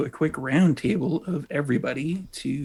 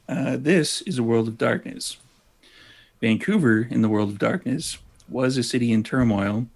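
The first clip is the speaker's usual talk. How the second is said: relishing a story; storyteller voice. Shown as a demonstration. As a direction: savor the dark opening like a narrator. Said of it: "Your storyteller voice".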